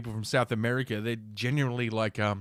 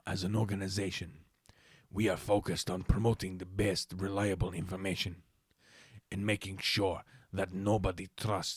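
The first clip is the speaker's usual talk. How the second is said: Latino voice; 3 semitones lower, 6 dB quieter than usual. Acted. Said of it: "read this in a flattering, uh, Latino voice".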